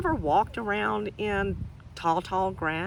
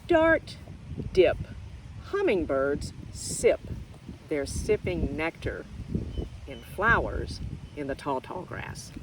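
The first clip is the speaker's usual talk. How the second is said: picture book reading. Acted. Teacher reads picture book to children, lively sing-song. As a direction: read it to little ones with bounce.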